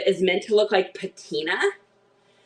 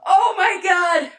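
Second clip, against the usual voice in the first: laughing hard. Real, not acted. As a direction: squeal with laughter. Cracking up at the pet.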